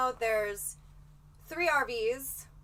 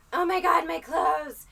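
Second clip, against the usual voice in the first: mock dramatic whine; 6 semitones higher, 8 dB louder than usual. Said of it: "I don't wanna be like".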